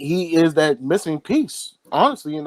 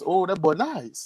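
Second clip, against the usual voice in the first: a light, slowed imitation of a Florida accent; Lamar's Florida accent; 4 semitones higher, 3 dB quieter than usual. Cohost imitating Lamar praising the rookie's highlights, light Florida accent. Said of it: "how he said it in his Florida accent".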